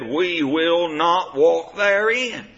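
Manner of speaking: "We will not walk therein" drawn out slowly, word by word; emphatic refusal. Acted. The people answering Jehovah, "will not walk" slow and emphatic. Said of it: "verse sixteen is emphatic".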